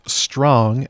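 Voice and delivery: Strong with a rising questioning lift; Strong spoken as a doubtful query. Retold or imitated. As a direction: ask it, Strong, with a slight upward tune. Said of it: "as a question".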